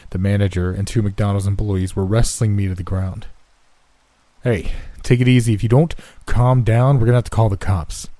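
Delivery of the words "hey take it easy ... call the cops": firm warning. Acted. Manager restraining narrator.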